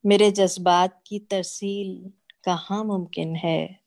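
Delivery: mushaira-style poetry reading; ghazal recitation. Acted. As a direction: recite each half-line deliberately, pausing before the refrain.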